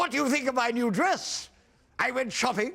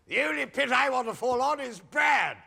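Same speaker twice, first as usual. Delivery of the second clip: shouted punchline. Acted.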